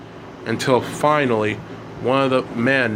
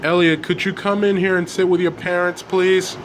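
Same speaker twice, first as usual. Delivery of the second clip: lightly voiced father, higher pitch; raised, polite parental request; father asking; 6 semitones higher than usual. A narrator's reading. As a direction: ask it as a parent calling a child over. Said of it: "his father asked him".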